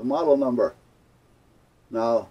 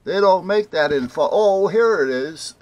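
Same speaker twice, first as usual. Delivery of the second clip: retold sudden discovery; 8 semitones higher, 10 dB louder than usual. Paint clerk objects, then spots the foam, loudly surprised. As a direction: imitate a clerk protesting, then stumbling on it.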